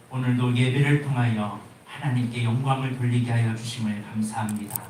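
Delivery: loud, fervent pastoral prayer; public prayer. Acted. Pastor praying aloud for the congregation, fervent and loud. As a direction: pray out over the whole congregation.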